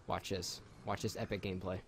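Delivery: low, soft mock-epic announcer; low hype voice.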